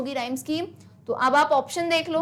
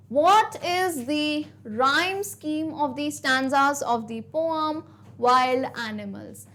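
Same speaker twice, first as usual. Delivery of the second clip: slow, deliberate reading of the exam question; question read aloud; much slower than usual. Acted. Teacher reading the quiz question slowly to students.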